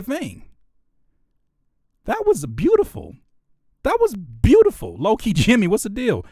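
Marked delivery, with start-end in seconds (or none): 2.0-6.2 raised pitch, overcome with admiration; moved, near tears. Real, not acted. Host praising a beautiful beat, moved. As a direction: gush as if about to tear up. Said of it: "Damn near about to tear up".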